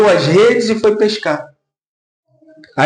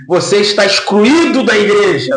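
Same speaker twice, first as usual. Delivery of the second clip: laughing mock verdict. Mock wrong answer, laughing.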